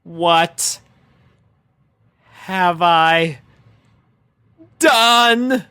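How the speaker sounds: slow, spaced, rising dread; frozen, each word dragged out; stunned horror, halting; paralyzed dread. A narrator's reading. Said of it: "body stood paralyzed".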